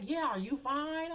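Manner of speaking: put-on high, slow old lady; sweet old lady voice. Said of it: "She was like".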